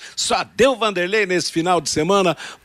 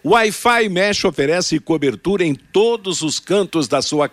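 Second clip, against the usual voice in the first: ad read. Acted. Reads sponsor ad.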